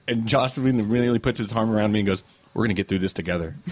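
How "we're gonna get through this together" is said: low, softly confiding quote; retold reassurance. Director with an arm round his new friend, retold reassurance. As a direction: imitate a pal reassuring someone.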